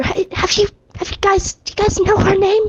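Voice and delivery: stage-whispered aside. Asking the others in character about the girl: side whisper. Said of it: "side whisper".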